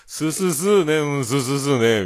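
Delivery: high, loud chant-like Hakata "sū sū sū ne"; Hakata "sū" talk. Shown as a demonstration. Demonstrating talk about a draught, Hakata one-syllable chatter. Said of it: "みたいな感じでするよ".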